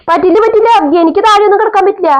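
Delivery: daughter-in-law voice. Acted. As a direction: push back firmly on the sleeping plan. Mother-in-law refuses floor.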